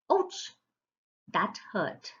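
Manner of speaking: a sudden mock yelp of pain. Shown as a demonstration. Teacher to class, acting out an exclamation of sudden mock pain. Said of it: "expresses strong emotion or surprise".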